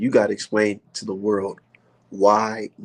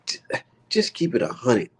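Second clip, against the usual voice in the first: hushed, breathy confiding; whispered aside. Real, not acted. Streamer confiding to chat in a whisper. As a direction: lean in and say it under your breath.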